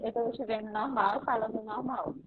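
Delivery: glitchy robotic call audio; choppy, robotic internet voice. Real, not acted. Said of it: "tá com a voz de robô".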